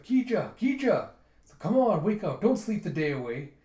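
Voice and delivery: high, loud wake-up call. Acted. Woman shaking sleeper at the table, calling loudly. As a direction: rouse a sleeper briskly. Waking someone asleep at table.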